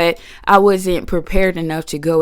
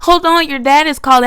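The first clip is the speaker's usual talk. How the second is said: high, loud granny interrupting; excited grandma cutting in; high busy granny hurrying off the line; 10 semitones higher, 6 dB louder than usual. Retold or imitated. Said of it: "she's like".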